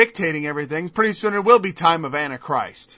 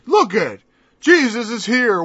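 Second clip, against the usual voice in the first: mocking scoffers; slower than usual. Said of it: "they begin to mock you and say".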